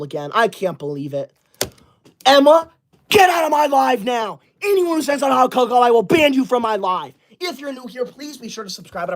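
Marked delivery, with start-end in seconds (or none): 2.3-7.1 angry shout. Real, not acted. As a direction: bark the ban at the chat. Streamer shouting bans at chat trolls.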